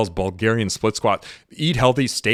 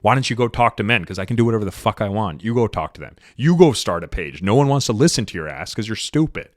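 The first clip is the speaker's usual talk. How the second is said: mildly angry rant; venting a little anger; 3 dB louder than usual. Real, not acted. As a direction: let a little real anger out. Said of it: "A little anger, let it out".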